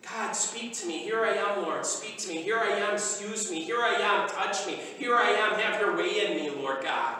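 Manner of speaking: hushed devoted prayer. Shown as a demonstration. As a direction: pray it gently as a model for them. Quiet modeled prayer.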